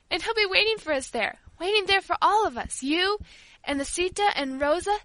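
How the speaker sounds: high, loud, fervent entreaty; impassioned child's appeal, swelling and slowing; desperate pleading. A narrator's reading. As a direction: beg with all your heart. Paula begs her uncle tearfully.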